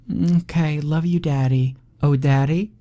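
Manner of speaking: put-on high bright child voice; little girl calling. Daughter calling to her father as he leaves. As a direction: call out sweetly like a small daughter.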